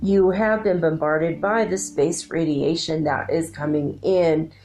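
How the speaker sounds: even, measured voice for a channeled message; channeled council message. Acted. Relaying the Arcturian Council's message to viewers, a calm, measured channeled voice. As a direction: deliver it as a calm spokesperson for the council. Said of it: "so when my voice changes".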